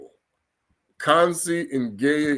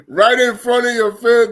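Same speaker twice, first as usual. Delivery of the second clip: excited; 8 semitones higher, 7 dB louder than usual. Real, not acted. Excited tale of a hostage name.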